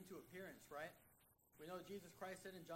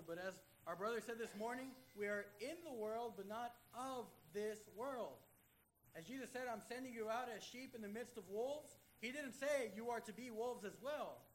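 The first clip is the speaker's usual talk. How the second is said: loud preaching, pressing each line home; full-force preaching; 4 dB louder than usual. Acted. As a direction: drive it home to the congregation, loudly.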